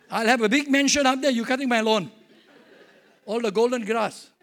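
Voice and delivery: teasing through laughter; laughing joke. Real, not acted. Joking to the church people about mowing his heavenly lawn, laughing. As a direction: tease them, laughing as you speak.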